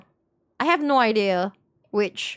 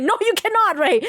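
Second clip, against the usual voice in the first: mock firm refusal; 9 semitones higher than usual. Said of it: "And I'm like".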